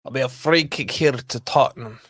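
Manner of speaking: put-on quiet, offhand Scottish accent. Commentating a free kick to the stream, soft Scottish accent. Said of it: "why I did that Scottish".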